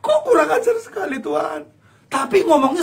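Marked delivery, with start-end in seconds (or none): 0.0-1.6 mock wounded prayer to God; aggrieved prayer. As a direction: pour out the hurt, half crying. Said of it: "ngomong sama Tuhan".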